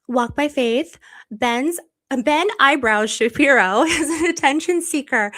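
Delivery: reading through giggles; amused read, laughter breaking in; laughing while reading. Real, not acted. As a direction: crack up over the nickname. Reading funny nickname, laughing.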